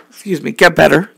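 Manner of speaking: hoarse, worn-out voice; losing voice. Real, not acted. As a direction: voice giving out after long talking. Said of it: "'cause now I'm losing my voice".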